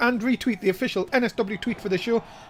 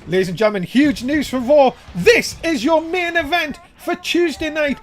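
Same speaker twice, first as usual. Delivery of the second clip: announcer hype; 2 semitones higher, 4 dB louder than usual. Real, not acted. Announcing main event news.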